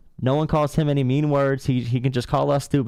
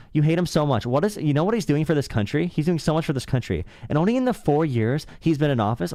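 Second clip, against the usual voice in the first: high, shrill-free mocking impression of the caller, pitched up; mock diva rant; 3 semitones higher than usual. Streamer mocking a Trump-fan caller, high mock diva rant. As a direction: parody his rant as an overwrought preteen. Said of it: "you literally sound like that".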